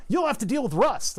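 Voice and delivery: high-pitched mock nagging; mocking everybody's warning. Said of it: "That's what every, everybody goes".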